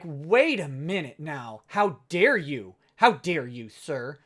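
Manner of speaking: a haughty artist scolding an internet nobody, hammed-up; mock indignant creator. Offended comic pro answering a critic, mock huffy. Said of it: "and you were like".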